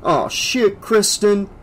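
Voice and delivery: exasperated, high-pitched complaint; groaning. A narrator's reading. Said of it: "Kincaid groaned".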